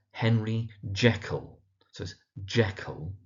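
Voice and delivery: Jekyll said JECK-ull; stress on Jeck. Shown as a demonstration. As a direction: lean on the first syllable of Jekyll. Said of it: "emphasis on the Jeck part".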